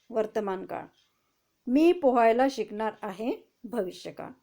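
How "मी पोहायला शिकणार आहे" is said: reading aloud. Shown as a demonstration. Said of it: "आपको पढ़ के भी दिखाती हूँ".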